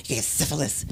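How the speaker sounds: soft whispered syphilis; quiet motherly warning; hushed warning. Retold or imitated. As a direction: whisper it like a secret. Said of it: "she used to worry".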